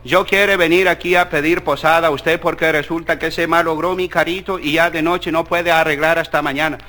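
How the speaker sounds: put-on low, broken American-accented Spanish; a lost American tourist in halting Spanish; gringo Spanish. American tourist asking a Mexican rancher for shelter, low broken accent. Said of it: "le dice".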